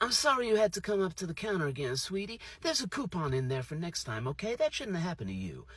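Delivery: kind server. Retold or imitated. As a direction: soothe him like a caring cashier. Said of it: "She was like".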